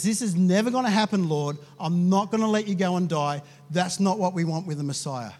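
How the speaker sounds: mild, firm protest; firmly refuse, leaning on the negatives; rebuking. Acted. Peter taking Jesus aside, mildly acted rebuke. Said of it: "he begins to rebuke him".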